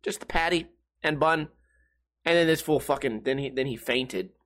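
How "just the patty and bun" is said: higher, put-on voice for her order; lightly voiced girlfriend being picky; mimicking girlfriend. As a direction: turn down every topping in a silly voice. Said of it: "And she goes".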